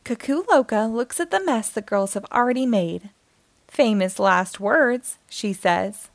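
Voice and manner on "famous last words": dry. Acted. Cuckoo Loca's dry remark.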